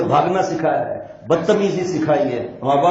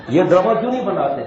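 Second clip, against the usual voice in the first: laughing; 2 semitones higher than usual. Real, not acted. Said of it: "laughing rhetorical question".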